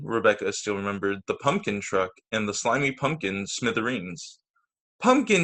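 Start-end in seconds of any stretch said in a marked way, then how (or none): 5.0-5.4 high, loud disgusted cry. Acted. Rebecca spotting pumpkin vines in her yard, loud and disgusted. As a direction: spit the word out in disgust. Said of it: "she cried in disgust".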